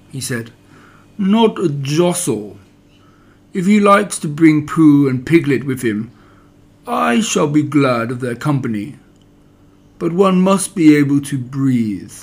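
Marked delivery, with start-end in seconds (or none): 1.2-12.1 lightly voiced gloomy donkey, solemn and important; understated mournful Eeyore making an announcement.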